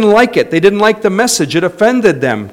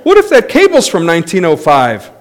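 mock panic; 7 semitones higher, 4 dB louder than usual. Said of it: "cable car panic, laughing".

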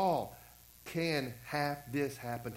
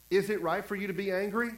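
"Is it right for you to be angry?" with a rising question tune; questioning read; 4 semitones higher than usual. Shown as a demonstration. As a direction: pastor rereading the verse as a real question, rising tune. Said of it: "read it and go".

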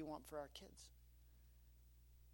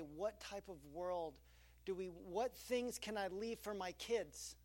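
slow reflective; slower than usual. Acted. Reflective question voiced.

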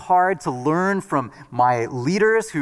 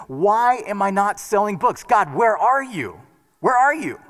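imitating desperate plea; 5 semitones higher than usual. Retold prayer of desperation.

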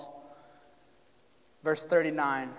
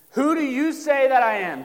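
Jesus asking; 8 semitones higher, 8 dB louder than usual. Acted. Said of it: "Jesus asked his disciples".

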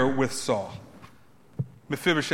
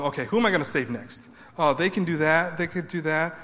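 mock God browsing. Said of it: "God's not looking at you wondering".

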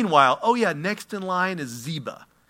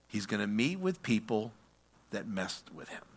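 ominous hush; 6 semitones lower, 10 dB quieter than usual. Real, not acted. Ominous drop after build.

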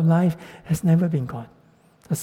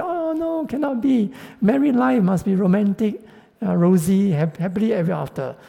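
higher, mock-shocked protest; lightly hammed-up romantic disbelief; dismayed single; 5 semitones higher than usual. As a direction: play the starry-eyed single refusing the idea.

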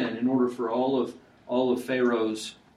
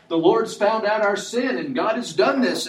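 fearful confession; 9 semitones higher, 6 dB louder than usual. Acted. Judah confesses in fear.

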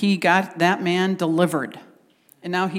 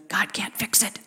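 soft, insinuating enemy whisper; acted tempter's whisper; 7 dB quieter than usual. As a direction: whisper doubt into the listener's ear. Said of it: "enemy comes and whispers and says".

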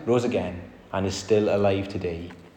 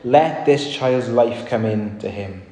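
crying out to God; 3 dB louder, slower than usual. Acted. Elijah crying out over the child, loud then slow. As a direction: cry out for the child's life. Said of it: "cried out".

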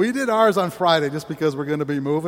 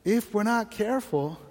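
softer, slow, tender warning; gentle voice of God; 3 semitones higher, 4 dB quieter, slower than usual. Retold or imitated. God gently warning the pastor, softer and slow. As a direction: lean in and quietly caution. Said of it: "and he said".

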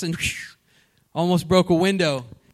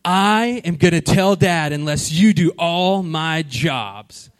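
blackmailing brother; 3 dB louder, slower than usual. Retold or imitated. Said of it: "and he's like".

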